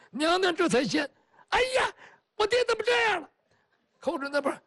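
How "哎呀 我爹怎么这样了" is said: high, crying exclamation; a distraught daughter's high wail; tearful dismay. Acted. Daughter grieving over her father. (哭着惊呼)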